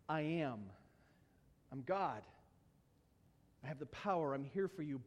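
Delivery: low, soft, steady assurance; calm and hushed, with pauses between phrases; gentle reassurance. Acted. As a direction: reassure them quietly as one in authority. Voicing Jesus reassuring the disciples.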